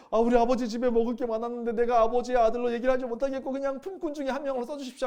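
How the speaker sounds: a hint of a humbled son begging; starving son rehearsing his plea to his father; lightly voiced repentant son. Repentant son speaks to himself.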